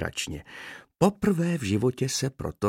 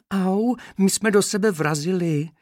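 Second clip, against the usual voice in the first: high, loud ouch from a small bee; crying out little bee; 11 semitones higher, 5 dB louder than usual. A narrator's reading. Bumped bee cries out to the trainer, high and loud. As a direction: yelp it high and louder, slowly. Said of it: "křičí jedna včelička".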